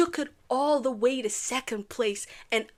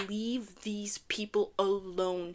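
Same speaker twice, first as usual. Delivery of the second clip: slow whispered plea, almost breathless; 3 semitones lower, 6 dB quieter, slower than usual. Real, not acted. Vlogger whispering to online bullies to leave contestants alone. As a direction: hush it out slowly like a plea. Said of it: "whispered plea to online bullies".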